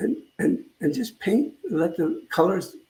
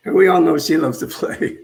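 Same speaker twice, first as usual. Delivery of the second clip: laughing; 6 dB louder than usual. Real, not acted. Laughing about Gilda Radner.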